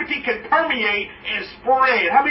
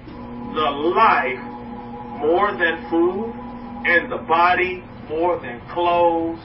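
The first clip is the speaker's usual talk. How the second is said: scripture reading; 2 semitones lower, slower than usual. Acted.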